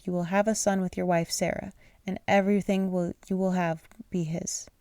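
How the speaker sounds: tripping over the words; stumbling misread. Real, not acted. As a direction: read it wrong, stumbling. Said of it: "Let me reread that".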